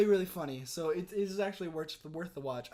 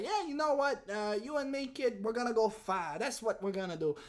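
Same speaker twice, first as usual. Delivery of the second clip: lightly voiced wise-guy gangster; a hint of an old-movie gangster, pitched up; 4 semitones higher than usual. Auditioning for Moonface the gangster, lightly voiced wise guy. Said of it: "I had this whole voice".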